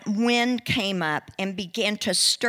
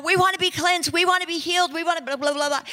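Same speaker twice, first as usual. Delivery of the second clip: pleading crowd; 6 semitones higher, much faster than usual. Retold or imitated. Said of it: "you know".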